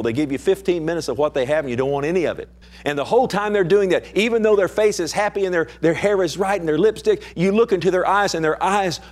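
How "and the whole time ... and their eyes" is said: higher-pitched, urgent pulpit delivery; impassioned preaching. Real, not acted. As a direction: press the point urgently on the congregation. Preaches at full force.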